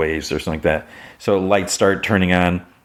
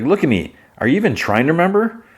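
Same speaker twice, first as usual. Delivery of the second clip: raised pitch, quick urgent plea; high pleading; 10 semitones higher, faster than usual. Retold or imitated. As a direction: push the question fast and high. Pleading confrontation in retold scene.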